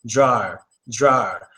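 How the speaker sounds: "drawer" said with an open ah vowel, tɹɑə, the wrong way; the flat vowel to avoid in "drawer". Shown as a demonstration. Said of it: "you don't wanna just say drawer".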